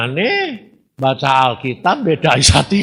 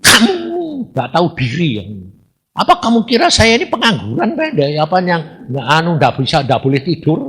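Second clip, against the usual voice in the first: 1 angry scolding; 3 semitones higher than usual. Retold or imitated. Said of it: "Marah kamu".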